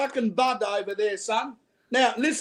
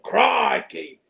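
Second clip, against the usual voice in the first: drawn-out sailor exclamation; British sailor talk. Acted. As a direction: lightly imitate an old British sailor. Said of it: "And they would talk".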